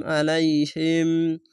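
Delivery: আলাইহিম slow, with the final m held; ikhfa mim sakin. Shown as a demonstration. Teacher showing mim sakin, আলাইহিম ending on a held m. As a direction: hum the closing m of আলাইহিম. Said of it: "এখানে ইকফা মিম সাকিন".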